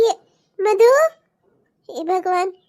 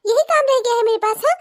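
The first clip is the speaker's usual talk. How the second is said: angry outburst. Acted. Daughter-in-law snaps at old in-laws.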